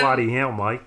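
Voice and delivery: casual, badly faked Australian twang; bad Australian accent. Defending his impression to his co-host, bad Australian accent. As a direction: toss off a half-hearted Australian accent. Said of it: "but your accent isn't Australian".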